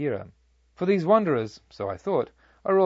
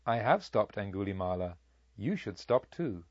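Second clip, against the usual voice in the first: calm and quiet; 4 semitones lower, 5 dB quieter than usual. A narrator's reading. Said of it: "paced quietly on and called back".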